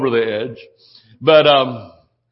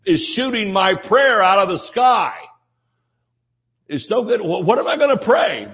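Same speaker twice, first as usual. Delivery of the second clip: higher-pitched exasperated preaching; exasperated retort; 5 semitones higher than usual. Acted. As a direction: push back in rising disbelief. Acted blunt retort to prayer request.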